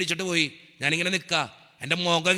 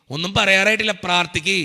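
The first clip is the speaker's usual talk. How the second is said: louder, raised preacher's repetition; forceful retold verdict; emphatic repeat; 2 semitones higher, 6 dB louder than usual. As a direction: drive the doctor's words home. Same news repeated for emphasis.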